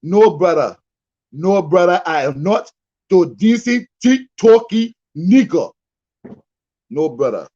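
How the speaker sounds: mocking imitation. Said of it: "He said".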